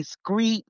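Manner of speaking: "screet" with an sk sound for street; Southern pronunciation. Retold or imitated. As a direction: say "screet", swapping the str for skr. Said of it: "hearing the people ... say".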